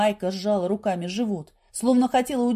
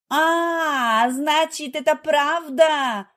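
high, loud jealous outburst; wife catching her husband, shouting; 6 semitones higher, 5 dB louder, much slower than usual. A narrator's reading. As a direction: scream the discovery out. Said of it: "закричала Майка".

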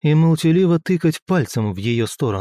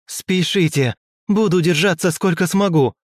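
a touch higher, lightly urgent exclaim; mildly heroic call to hurry; 6 semitones higher than usual. A narrator's reading. Former matriarch covers her companions, mild heroic exclaim. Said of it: "воскликнула бывшая великая проматерь Тау".

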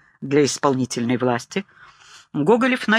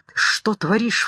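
a mild mock cry of fear, pitched up; a touch of panic in the voice; frightened cry; 5 semitones higher than usual. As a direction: blurt it out in alarm. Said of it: "вскрикнул он в страхе".

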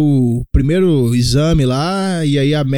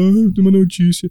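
higher mock-tearful voice; choro imitado; 4 semitones higher than usual. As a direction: imitate a pregnant woman breaking bad news in tears. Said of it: "ela chega chorando e fala". (voz de choro imitada)

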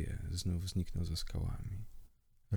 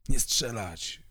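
louder, higher urgent shout; 4 semitones higher, 5 dB louder, slower than usual. Acted. Michał shouting to his pack to hold fire. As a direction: bark the order to stop the shooting. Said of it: "krzyknął Michał".

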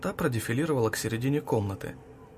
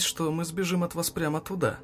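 a touch of mockery, pitched up; mocking; 6 semitones higher than usual. A narrator's reading. Girl mocking the adults who would chase her, lightly mocking. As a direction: tease them lightly as you answer. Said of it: "насмешливо ответила девушка".

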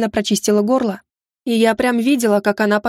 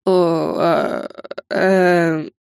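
растерянно; 4 semitones lower, much slower than usual. A narrator's reading. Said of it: "растерялся Кинун Гинта".

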